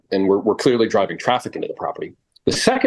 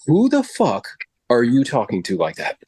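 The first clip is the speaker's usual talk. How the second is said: retold anger. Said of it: "I would get angry".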